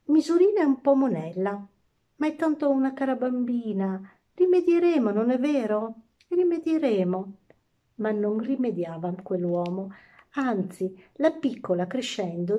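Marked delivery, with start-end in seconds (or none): 0.1-7.4 higher-pitched, indulgent father's plea; smooth it over, pitched up; anxious to appease; placating. A narrator's reading. King placates the complaining ladies.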